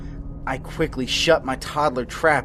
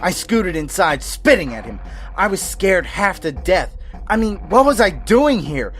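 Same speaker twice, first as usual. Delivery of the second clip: louder and higher, rushing panic; frantic; 4 semitones higher, 8 dB louder than usual. A narrator's reading. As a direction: build the terror as you tell it. Frantic escape builds in intensity.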